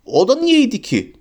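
high, slow indignant shout. A narrator's reading. Harry hit by Ron, shouting in outrage. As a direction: yell it in shock at the blow. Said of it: "diye bağırdı Harry".

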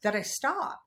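high, loud, outraged question; indignant disbelief. Retold or imitated. Imitating her angry reply to her partner, high and loud. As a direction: demand he repeat himself.

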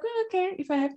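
high, grudging sing-song; reluctant mock agree. Retelling her answer to a friend's tip, high and grudging. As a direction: pitch it up, half-hearted and reluctant. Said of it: "I was like".

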